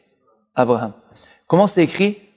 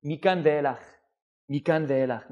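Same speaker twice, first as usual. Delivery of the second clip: good inclination's voice; 2 semitones lower, 8 dB quieter than usual. Acted. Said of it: "C'est quoi Yetzer Hara Tov".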